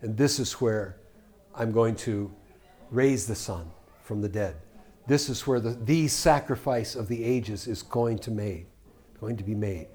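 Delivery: soft, hushed divine voice; God speaking. Acted. God the Father quietly revealing the plan in history. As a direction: let God confide his plan quietly. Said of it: "God the Father ... saying".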